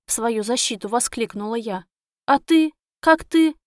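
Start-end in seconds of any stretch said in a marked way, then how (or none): 2.2-3.6 excited. A narrator's reading. Heroine excited asking Reus.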